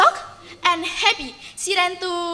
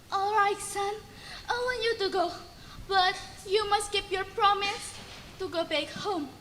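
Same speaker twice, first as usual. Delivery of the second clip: heavy-hearted mother; 2 semitones higher, 12 dB quieter than usual. Acted. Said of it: "with a hard feeling".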